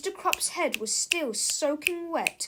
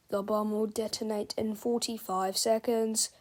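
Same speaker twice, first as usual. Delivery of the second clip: flat, even machine countdown; computer voice. Acted. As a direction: announce it like a robot. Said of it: "said the bomb".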